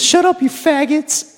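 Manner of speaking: mock road-rage shout; imitated angry yell. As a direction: yell it slowly like a driver hurling an insult. Acting out cab driver's insult.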